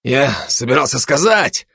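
halting, slightly stammered start; mildly faltering speech. Acted. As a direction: stammer a little as you explain. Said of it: "слегка заикаясь".

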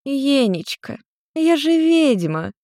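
high, slow, smiling witch voice; smiling witch mother. Acted. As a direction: purr it like a proud tipsy witch. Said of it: "Нарико улыбнулась".

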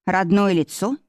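usual speaking voice

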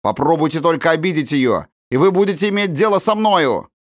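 put-on boy defending the girl, firm and angry; firm threatening. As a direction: stand up to the woman like a grown man. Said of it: "Его голос звучал твёрдо, как у взрослого".

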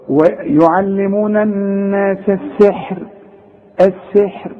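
السحر ending on a thin, light ر; light ra when stopping. Shown as a demonstration. Teacher recites السحر stopping on a light ر. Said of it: "رقق".

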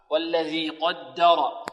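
slow "قدر" with heavy qaf and ra, light doubled dal. Shown as a demonstration. Teacher models the verse, heavy-light-heavy "قدر". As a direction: recite "قدر" as qawd-da-raw, measured. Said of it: "مفخمة".

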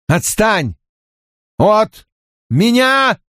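high, strained plea; desperate cry. Acted. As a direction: push him away in panic. Rand cries out.

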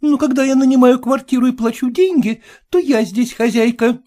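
high, sharp protest; lady shouting back at landlord; indignant shout. A narrator's reading. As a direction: stand up to the landlord. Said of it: "крикнула женщина".

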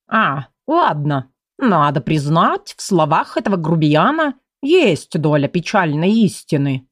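slow, lightly voiced grumbling cat; a hint of a sulky cat; grumpy talking cat.

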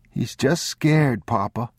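put-on high child's voice; pleading boy. A narrator's reading. Boy pleading for the scared old man, high child voice. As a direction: plead gently with Papa.

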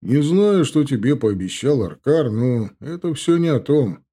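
sly, mocking orc; smug orc voice. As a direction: play the cocky young orc. Indgar voiced.

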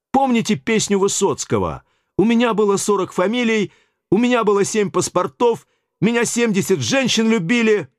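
cheeky bully on the phone; brash Yura. Acted. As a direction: push the receptionist around with swagger. Yura cajoles the receptionist.

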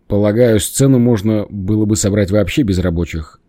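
grumbling and irritated; ворчливо. Acted. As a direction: grumble it out crossly. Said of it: "проворчал Саша". (недовольно ворча)

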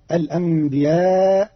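"الأنبياء" as al-anbi'aa', long and slow; hamza for the ya. Shown as a demonstration. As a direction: glottal stop in place of the y in "الأنبياء", long final aa. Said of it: "بهمز مكان الياء".

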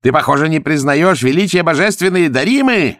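high, loud, menacing accusation; snarling. A narrator's reading. The Tibetan accuses Zagorsky of irreverence, snarling. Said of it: "оскалился тибетец".

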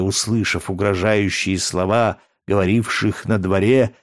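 usual speaking voice

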